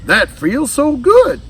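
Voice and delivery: high, slow, contented sigh; slow high blissful alligator voice. Acted. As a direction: stretch it out high and pleased like a big lazy alligator. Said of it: "Bridget stretched and sighed".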